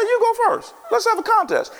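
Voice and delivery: defiant challenge. Retold or imitated. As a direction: throw down the challenge. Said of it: "and I lost it".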